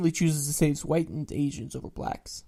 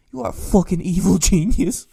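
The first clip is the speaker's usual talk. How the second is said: shout; 3 semitones higher, 12 dB louder than usual. Real, not acted. Reader shouting at the story's author in awe. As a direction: yell it at the screen in disbelief.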